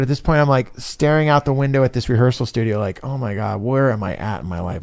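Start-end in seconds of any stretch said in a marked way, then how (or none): 3.0-4.8 low, soft musing to yourself; retold private despairing aside; muttered inner thought. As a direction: drop low and quiet, thinking aloud. Retold inner thought while staring out window.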